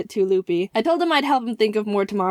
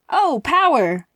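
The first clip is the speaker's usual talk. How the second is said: excited shout; 4 semitones higher, 4 dB louder, slower than usual. Real, not acted. Reacting to slogan joke.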